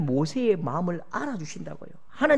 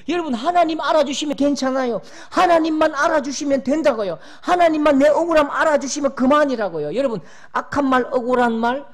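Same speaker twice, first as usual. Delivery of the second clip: loud, high impassioned preaching; preacher crying out gratitude to the congregation; fervent preaching; 6 semitones higher, 6 dB louder than usual. Real, not acted. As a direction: preach it with full fervour. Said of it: "preacher builds to climax".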